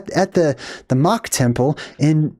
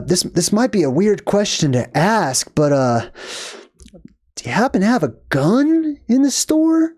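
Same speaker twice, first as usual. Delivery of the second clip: apologetic question rising high at the end; timid asker; 4 semitones higher than usual. Retold or imitated. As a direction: ask hesitantly, as if the question were improper. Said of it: "he says it just like that".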